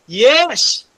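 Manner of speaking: a loud, high cry of yes; emphatic yes. Retold or imitated. Preacher voicing Branham's firm answer, loud and high. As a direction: shout the yes with conviction. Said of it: "Anong sabi ni Buddy Branham?".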